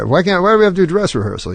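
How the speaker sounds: retold griping. Retelling comic's complaint about rehearsal.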